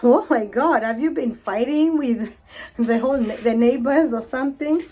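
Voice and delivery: mock-shocked gasp, laughing through it; shocked onlooker. Stranger reacting to her eye, in mock shock. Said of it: "somebody will think".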